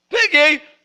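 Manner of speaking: "Peguei!" dito entre risos, mais agudo; peguei rindo. Acted. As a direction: solte o "Peguei!" rindo de alegria. (pregador celebrando a descoberta com risada)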